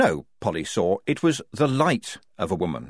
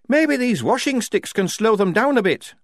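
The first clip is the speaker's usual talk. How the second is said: quavering; 12 semitones higher, 4 dB louder than usual. Acted. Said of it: "Shufti quavered".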